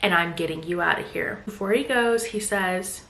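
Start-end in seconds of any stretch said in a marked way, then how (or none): 0.0-1.4 lightly imitated reluctant concession, sinking lower; resigned after sighing. Enzo agrees to leave but warns he will call police, mildly resigned. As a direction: retell a sighing promise, trailing softer at the end. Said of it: "he sighs and he's like".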